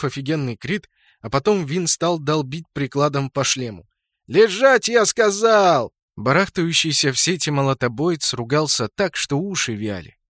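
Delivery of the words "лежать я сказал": higher, louder slowed command; commanding shout. A narrator's reading. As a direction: bark an order at the enemy. Pinning enemy down, yelling.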